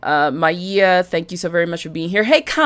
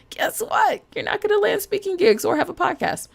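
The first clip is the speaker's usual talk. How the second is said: teasing. Acted. Teasing warning to listeners.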